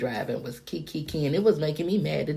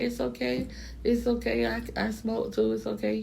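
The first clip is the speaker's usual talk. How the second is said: higher, easygoing driver voice; imitating driver; 10 semitones higher than usual. Driver reassuring rider about smoking, high light voice. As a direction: play the relaxed driver.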